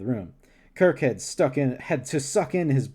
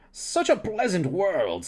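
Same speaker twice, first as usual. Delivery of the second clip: alien scientist voice; 5 semitones higher, much slower than usual. Acted. Andorian scientist voiced in reading.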